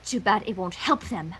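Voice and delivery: gloating. Acted. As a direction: savour the evil plan. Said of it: "she gloated".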